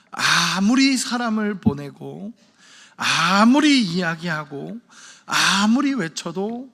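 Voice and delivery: slow, rising swell through each 아무리, pausing after each phrase; drawn-out emphasis on 아무리. Acted. Preacher voicing God's unheeded appeals, each 아무리 drawn out slowly. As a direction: stretch the first syllable of 아무리 long each time.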